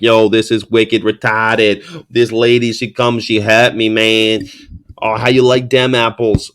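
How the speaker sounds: light imitation of a Boston accent; lightly hint at a Boston guy. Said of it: "He's talking like".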